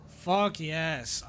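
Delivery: loud relieved cheer; real victorious outburst; triumphant. Real, not acted. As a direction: punch the air with it. Celebrates finally getting free.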